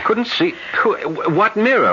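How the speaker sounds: high startled questions. Acted. John reacts to Minna's mirror story, startled and high. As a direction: caught off guard, puzzled.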